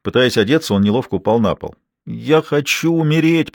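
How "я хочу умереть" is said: slow, higher, drawn-out moan. A narrator's reading. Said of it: "простонал он".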